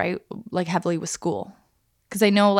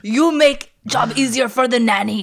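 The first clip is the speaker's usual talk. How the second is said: heavy mock accent, sounding Russian; bad Arnold accent; 5 semitones higher, 5 dB louder than usual. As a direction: do a clumsy Arnold impression. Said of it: "Stop that voice".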